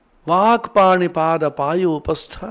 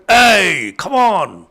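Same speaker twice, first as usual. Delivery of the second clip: louder, demanding robber voice; a lightly voiced dacoit, loud and bullying; rough robbers' demand; 2 semitones higher, 5 dB louder than usual. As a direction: bark at him like a bandit after the key. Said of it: "broke open the doors and said".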